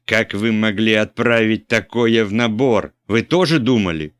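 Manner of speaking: loud, high furious shout; angry shout. A narrator's reading. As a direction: bellow the accusation. Bishop keeps yelling. (епископ кричит на наборщика)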